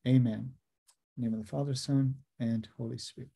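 solemn, measured prayer recitation. Acted. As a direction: pray aloud, steady and reverent. Opening prayer before the lecture.

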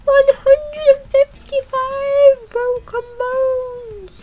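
high, slow, loud score call; thrilled, drawn-out proclamation; excited announcing. Real, not acted.

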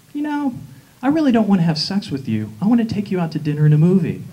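mock earnest suitor. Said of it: "He goes".

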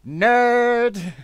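loud, high teasing shout; mock heckle. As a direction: heckle him with a drawn-out yell. Heckles co-guest for talking Paladins.

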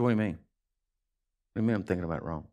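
low, hushed, half to yourself; quiet puzzled protest. Retold or imitated. Retelling own puzzled reply to God.

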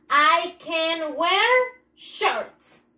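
very slow, each word set apart for the class; slow model sentence. Shown as a demonstration. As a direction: spell it out slowly for the pupils. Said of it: "¿Qué dice mi siguiente oración?".

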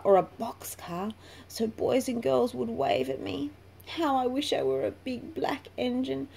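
a small caboose longing to be noticed; wistful little caboose. A narrator's reading. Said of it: "said the little red caboose".

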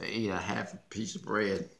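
chewing while talking; talking between bites of sandwich; mouth full. Real, not acted. Seen 0: Bites sandwich held at mouth 0.2–1.6, then chews; later sorts candy.

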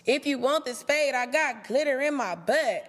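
mocking comeback.

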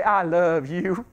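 slow, low and drawn out; tender declaration. Shown as a demonstration. Preacher modelling words to husband or wife, tender and slow. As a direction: draw it out lovingly.

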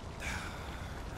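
soft, voiceless sigh; quiet exhaled sigh. Acted. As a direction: let out a resigned breath. Reluctant reply to being stuck.

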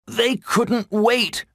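high, slow fawn voice; young deer Gobo. A narrator's reading. Gobo to Bambi, left behind by the others, high slow answer. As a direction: answer slowly in a high little voice. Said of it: "Gobo said".

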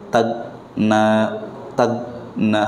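Tagna with a hard g stop; the rough g version to avoid. Shown as a demonstration. Teacher contrasting the rough g. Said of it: "haluskan lagi".

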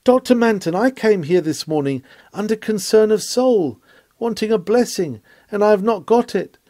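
lightly voiced old woman's complaint; old woman crying out. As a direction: call out to the preacher as a wronged old woman. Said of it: "an aged woman cried".

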